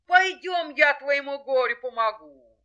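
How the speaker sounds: high, loud rooster voice; confident rooster. Acted. Rooster offers the hare help, confident. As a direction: offer help brightly and forcefully.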